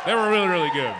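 talking with mouth full. Real, not acted. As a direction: say it through a mouthful of curd. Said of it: "I'm sorry, I'm eating a curd".

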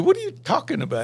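high, startled what are you talking about; startled protest. Retold or imitated. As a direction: sound caught off guard and innocent. Arnie asks if embarrassing him.

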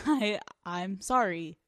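halting, reluctant apology; uncomfortable apology. Real, not acted. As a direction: force the apology out awkwardly. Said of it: "I'm uncomfortable saying it".

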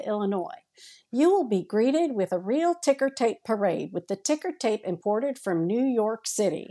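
a hint of a sweepstakes caller; lightly voiced prize call announcer. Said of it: "he thought I was a computer call".

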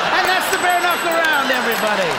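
loud, high host announcement; game show host. Acted. Host closing the debate round to the audience, announcer style. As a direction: wrap the round with host energy.

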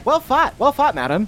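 courtly compliment. Acted. Player addresses queen formally.

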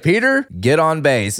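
a lightly voiced confident GM, firm and quick; confident boss. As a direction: point at Peter and give the order. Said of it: "He's like".

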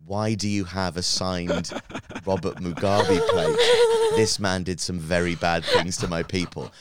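put-on Zimbabwean English, loudly confronting him; Zimbabwean accent. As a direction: mimic her Zimbabwean accent, indignant accusation. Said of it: "in her Zimbabwean accent".

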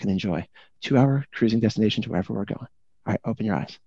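lightly voiced calm captain reassuring passengers; suave airline captain. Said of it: "in his suavest captain voice".

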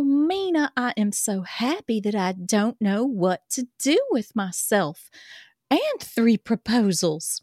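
put-on reading a love letter in a light Southern accent. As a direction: read it as a swooning Southern girl. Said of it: "This is Southern".

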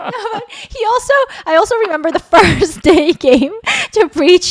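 high, loud laughing talk. Real, not acted. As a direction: talk while still giggling. Laughing after being teased.

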